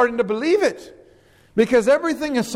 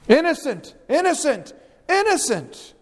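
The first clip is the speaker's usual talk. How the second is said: insisting innocent; 6 semitones higher than usual. Acted. Preacher voices Pilate insisting.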